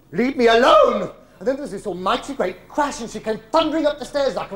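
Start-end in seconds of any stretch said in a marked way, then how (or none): 0.1-1.1 much louder, higher, drawn-out yell; acted outraged roar; furious shout. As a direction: bellow it slowly to drive them off. Mother repeats it, escalating.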